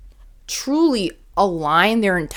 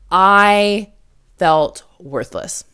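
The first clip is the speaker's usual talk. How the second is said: slow heavy admission; much slower than usual. Real, not acted. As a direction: let the words sink slowly. Confessing a painful feeling.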